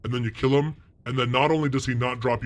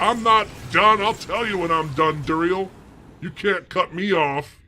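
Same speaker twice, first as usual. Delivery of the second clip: put-on drunk protest; 5 semitones higher, 4 dB louder than usual. Acted drunk gamer protesting.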